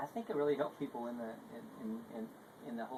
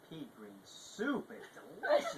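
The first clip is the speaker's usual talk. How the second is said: laughing quote; 6 semitones higher, 5 dB louder, slower than usual. Retold or imitated. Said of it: "as I said".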